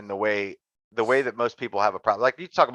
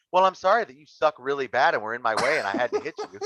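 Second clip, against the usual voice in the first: passive aggressive; 3 semitones higher than usual. Retold or imitated. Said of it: "passive aggressive".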